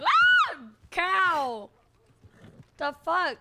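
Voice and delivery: mock shouting in his voice; mimicking that man. Friend trying out that man's voice, loudly mimicking him. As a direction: break into a loud, hammed-up imitation. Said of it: "makes you wanna talk like that".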